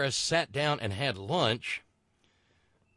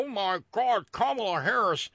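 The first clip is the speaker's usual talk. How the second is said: caricatured white person, pitched up on the exclamations then dropping; mock a scandalized white complainer; Richard Pryor white people voice. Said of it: "that's my Richard Pryor white people voice".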